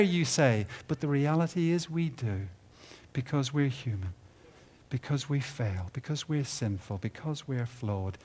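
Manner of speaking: ordinary talk, nothing marked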